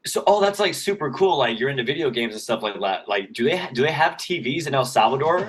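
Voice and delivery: lightly voiced clueless host; clueless coworker. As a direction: ask it like a well-meaning airhead. Imitating dumb coworker's question.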